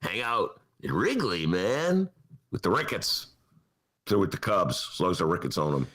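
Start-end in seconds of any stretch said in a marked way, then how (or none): 0.0-3.3 easy stoner-bro drawl, just hinted; a hint of a beer-loving frat bro. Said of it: "bro-like character who would love Wrigley Field".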